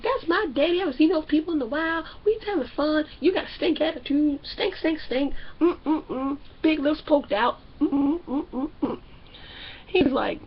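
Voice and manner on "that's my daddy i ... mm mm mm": mock pouty wife. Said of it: "And she's like".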